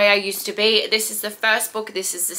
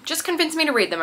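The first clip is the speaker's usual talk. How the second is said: higher pleading convince me; coaxing request to the comments; playful plea; 5 semitones higher, 4 dB quieter, faster than usual. Real, not acted. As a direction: beg the viewers sweetly.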